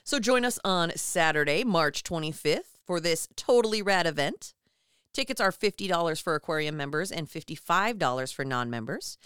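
lilting ad read with rising phrase ends; promo read. Acted. Co-host inviting listeners to the fundraiser, lilting promo read. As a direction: invite listeners like a cheery announcer.

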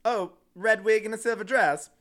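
a hint of a snarky British queen. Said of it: "in her British voice".

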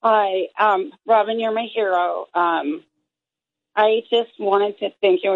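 rough morning voice, just woke up. Real, not acted. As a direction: talk in your early morning voice. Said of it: "I still have morning voice".

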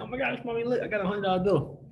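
put-on high, thrilled child's voice showing off a prize; excited little girl. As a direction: play the little kid waving her money at mommy. Little girl shows off her bill.

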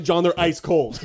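loud, high whine; mock complaint. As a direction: complain the food is cold. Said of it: "John would be like".

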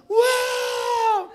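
high, loud gleeful whoop; imitating wife's whoop. Telling the church how his wife whoops while playing. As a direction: mimic her cheering as she throws the ball. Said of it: "e gritava".

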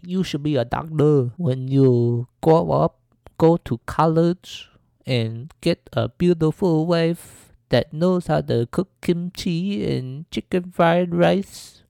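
hammed-up imitation of an old Asian lady's accent; bad Asian lady accent. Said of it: "this Asian lady accent is terrible".

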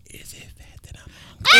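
husband mimics wife asking if hunger is fat, high and loud; mocking wife. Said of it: "she'd be like".

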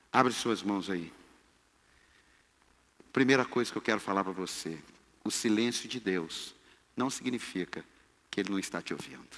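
low, hushed pastoral address; soft ministering. Real, not acted. Preacher telling a brother about God's silence, soft and low. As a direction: speak low and quietly to one listener.

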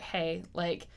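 soft, quiet, caring question; gentle check-in. Retold or imitated. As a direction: ask softly, reassuring. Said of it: "I'd be like".

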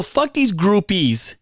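slow mock-loud jeer, lightly acted; retold loud talk. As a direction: imitate her talking loud, drawn out. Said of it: "she's talking loud now".

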